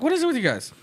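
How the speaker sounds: high, frustrated retold shout at the audience; exasperated outburst. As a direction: blow up at a dead crowd. Retelling snapping at bored crowd.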